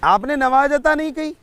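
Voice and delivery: an affronted question, rising in pitch; mildly angry king. Retold or imitated. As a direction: challenge him with mild mock indignation. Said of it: "बादशाह को गुस्सा आया".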